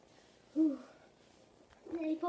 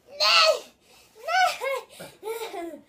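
being tickled. Real, not acted. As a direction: shriek it while laughing. Child squealing while tickled.

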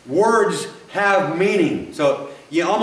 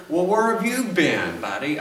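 impatient accusing; 3 semitones higher than usual. Retold or imitated. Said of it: "he's, like, tapping his foot".

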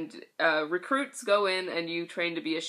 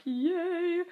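excited cheer; 11 semitones higher than usual. Retold or imitated. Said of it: "and I'm like".

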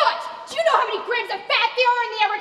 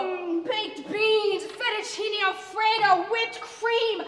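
savouring; much slower than usual. Acted. Savouring food to taunt friend.

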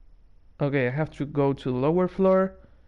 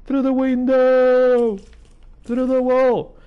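slow, high, loud terrified yelling; panicked scream; 8 semitones higher, 4 dB louder, slower than usual. Real, not acted. Gamer panicking at a horror game monster, screaming high and loud. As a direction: cry out in real fright as something bursts in.

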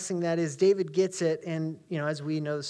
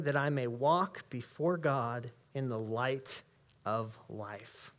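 scripture reading. Acted. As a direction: read each line with weight and pauses. Reads psalm aloud.

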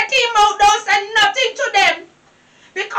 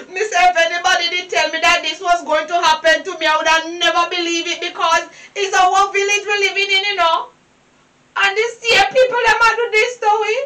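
crying; 3 semitones lower than usual. Acted. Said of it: "You're still crying".

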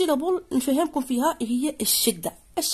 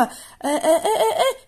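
laughing; 7 semitones higher than usual. Real, not acted. Teacher laughing at pupils' answers.

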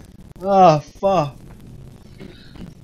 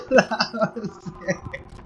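laughing; 4 semitones higher, much slower than usual. Real, not acted. Laughing after the run.

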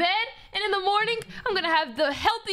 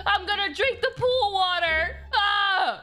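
desperate thirsty cry; 3 semitones higher than usual. Acted. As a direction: lose it over the thirst.

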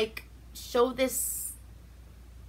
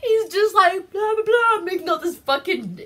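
laughing; 9 semitones higher, 4 dB louder than usual. Real, not acted. Mocking the villain's speech.

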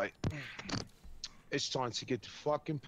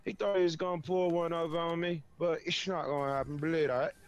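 loosely held mock British accent, a touch higher; 4 semitones higher, 5 dB louder than usual. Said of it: "the British accent".

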